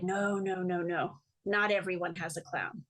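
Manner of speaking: lightly imitated French accent, measured delivery; a hint of an old French teacher; old Frenchman's accent. Clown teacher answering the interviewer, light French accent. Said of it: "old French man with a funny accent".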